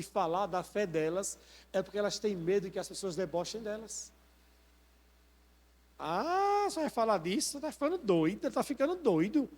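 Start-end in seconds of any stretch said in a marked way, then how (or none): 6.0-9.5 mocking scoffer. Preacher voices people mocking a believer's faith, mocking and high. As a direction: scoff at them in a higher, swooping voice. Voicing mockers of someone's faith.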